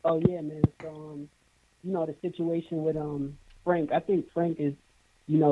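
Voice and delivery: caller far from the mic; muffled. Real, not acted. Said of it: "sounded like he was kinda muffled".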